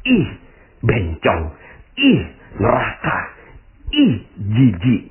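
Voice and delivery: mock disgusted sneer at the passer-by; slow, drawn-out ih of disgust; imitating a judgmental onlooker recoiling. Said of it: "ngomongnya gini".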